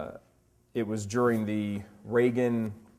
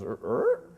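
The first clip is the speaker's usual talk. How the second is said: puzzled dog noise. Retold or imitated. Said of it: "he goes".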